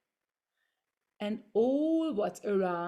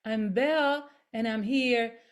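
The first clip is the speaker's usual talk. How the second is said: projected self-introduction; 4 dB louder than usual. Shown as a demonstration. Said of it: "Let's try two times".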